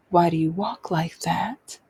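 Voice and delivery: lightly imitated interrogating mother; toned-down harsh mother. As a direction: demand an answer, with restraint. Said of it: "not even saying it as harshly as she does".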